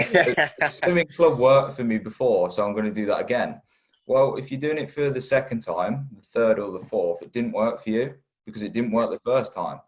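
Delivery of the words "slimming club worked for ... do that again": mocking client voice. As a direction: send up a client's excuse. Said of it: "the amount of people that say".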